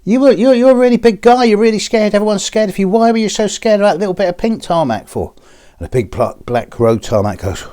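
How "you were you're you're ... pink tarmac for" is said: very high-pitched, loud incredulous questioning; baffled barman. Acted. Barman asking the tough tarmac why he's scared, high and incredulous. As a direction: tumble out the question in a high put-on voice.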